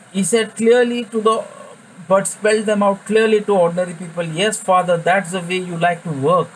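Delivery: scripture reading. Acted. Rereads the passage louder.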